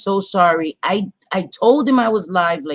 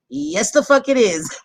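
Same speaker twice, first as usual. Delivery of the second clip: emphatic reread; 9 semitones higher than usual. Retold or imitated. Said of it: "So the first one says".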